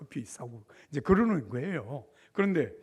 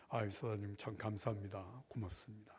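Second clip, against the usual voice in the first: humble soft thanks; 6 semitones lower, 12 dB quieter than usual. Retold or imitated. Humbly declining the general's beer.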